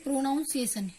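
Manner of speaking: प्रोनाउंसिएशन said with a full "nown-see-ay-shun" middle; the common mistaken way, "pro-NOWN-see-ay-shun"; wrong pronunciation. Shown as a demonstration. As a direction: demo of the wrong way. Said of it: "It's a wrong way".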